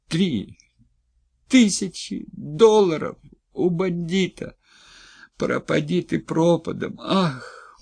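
wife raging over the debt, shouting. Acted. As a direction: hurl it at him in fury.

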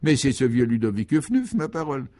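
a touch of pleased surprise; delighted recognition. Acted. Léon suddenly recognises his old friend Ludovic, mildly delighted surprise. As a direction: brighten as it dawns who this is. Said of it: "son visage s'éclaira tout à coup".

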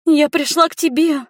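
put-on girl almost sobbing to the man rejecting her; nearly crying. A narrator's reading. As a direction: plead high, close to tears. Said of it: "чуть ли не ревела огневичка".

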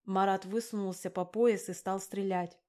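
plain reading voice

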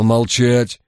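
snapping at a subordinate; yelled order. Acted. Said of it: "Жиглов заорал".

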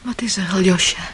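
hushed whisper at the sickbed. Acted. Katja whispering to Alyosha beside the sick Ivan. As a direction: whisper so the sick man sleeps on.

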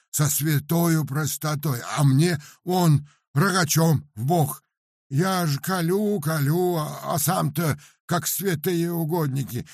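high, loud peasant lament; Paramon's voice. Acted. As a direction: wail about the burning chest like a simple peasant. Paramon's long grievance.

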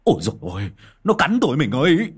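yelping cry. Acted. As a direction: yelp to the wife after being bitten. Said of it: "Bác Vó hú lên".

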